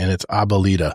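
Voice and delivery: plain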